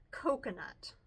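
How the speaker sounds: low, soft murmured jibe; understated whispering classmate; hushed taunt. A narrator's reading. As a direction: drop the word quietly, like classroom gossip. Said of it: "to whisper into each other's ears".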